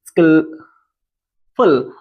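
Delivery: word split by a long pause; dictating by syllables. Shown as a demonstration. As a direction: say it slowly in two separate halves. Teacher dictates word while writing it. (शब्द तोड़कर, धीरे-धीरे बोलते हुए)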